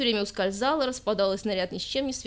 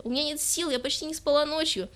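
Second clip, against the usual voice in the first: higher, thin tired voice; squeaky plea; 7 semitones higher than usual. Acted. Tired girl answers her boyfriend in a higher, squeaky voice. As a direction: squeak out how tired you are. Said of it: "пропищала девушка".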